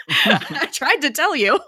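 slow, high, loud through laughter; laughing retelling. Retold or imitated. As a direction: crack up while quoting the line. Retold line dissolving into laughter.

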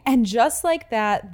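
slow, drawn-out narrator line; dramatic Carrie voiceover. Acted. Parodying the show's narrator, slow and loud. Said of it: "Just like how the seasons change".

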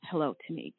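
cold greeting. Retold or imitated. Boss greeting her on the firing call, coldly. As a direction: imitate the boss's icy tone lightly. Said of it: "Man, she's really cold".

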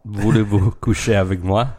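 hammed-up French line, singsong; lightly voiced Moulin Rouge French; foreign accent in French. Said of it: "trying to speak French".

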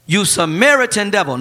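a hint of a sneering crowd; mock insult. Crowd insulting Jesus, lightly mocking. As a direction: spit out the slur lightly. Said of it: "The people retorted".

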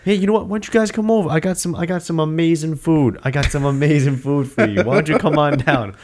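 falsely welcoming bad guy; super calm. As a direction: lure them over like a genial host. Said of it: "when the bad guys are super calm".

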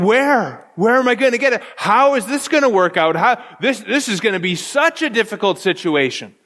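mildly flustered worrier, questions tumbling out; lightly dramatized worry, easing toward the end; mock fretting. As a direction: act out a touch of anxious disbelief. Acting out anxious reaction to trouble.

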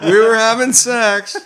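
laughing through the words, slow; can barely get it out for laughing. Real, not acted. Laughing while telling funny story.

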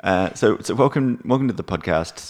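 echoey empty room; roomy echo on voices; in an empty apartment. Real, not acted. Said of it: "it's a little bit echoey".

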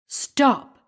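high, commanding shout; thundering cry. A narrator's reading. Squire orders the fleeing sexton to halt, thundering. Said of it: "cried the squire in a voice of thunder".

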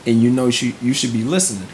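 calm, gentle dad talking it through; patient, soothing questions to his daughter; an easygoing father asking his daughter what happened; real calm voice. Retold or imitated. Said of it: "I'll do it in a real calm voice".

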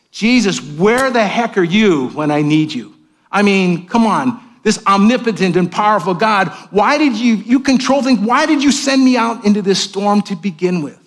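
mock exasperated cry at God; exasperated plea. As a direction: demand answers from God, frustrated. Voicing a frustrated prayer to God.

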